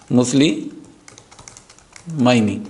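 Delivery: مسلمینی stretched very slowly, falling at the end; slow teacher demo of مسلمینی; drawn-out model word. Shown as a demonstration. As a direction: spell out مسلمینی syllable by syllable, slowly. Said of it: "drawn-out model pronunciation".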